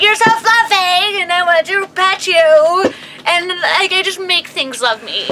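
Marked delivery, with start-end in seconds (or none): 0.0-2.9 put-on baby talk. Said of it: "and I'm like".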